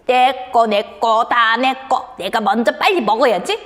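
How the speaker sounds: lightly voiced grabby kid; a touch of playful greed; greedy child. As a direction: claim it all for yourself. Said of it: "하고 욕심 부리는 친구가 있네요".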